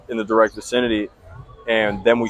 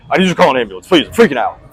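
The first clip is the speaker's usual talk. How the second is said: higher, louder, begging for an ambulance; imitating a frantic friend pleading "I'm freaking out"; mock panicked plea; 5 semitones higher, 5 dB louder, much faster than usual. Friend begs the old neighbor to call an ambulance, higher and louder panicked plea.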